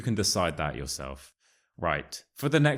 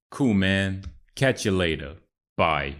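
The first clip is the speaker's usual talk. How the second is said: put-on American accent. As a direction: play Chad, an American bro. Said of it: "my amazing American accent".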